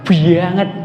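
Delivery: Javanese "banget" with a heavy doubled B, "bbanget"; mild Javanese medok "banget"; Javanese accent. Shown as a demonstration. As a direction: say "banget" the thick Javanese medok way, B pressed hard. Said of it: "Surah yang Jawa ini B-nya dua".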